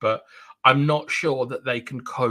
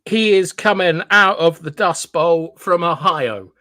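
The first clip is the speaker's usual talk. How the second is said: mock announcer; 5 semitones higher, 7 dB louder than usual. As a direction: announce him like a fighter entering the ring. Introduces commenter like a ring announcer.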